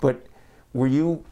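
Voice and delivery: muffled through a face mask; speaking through a mask. Real, not acted. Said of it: "if I sound a bit muffled in this episode".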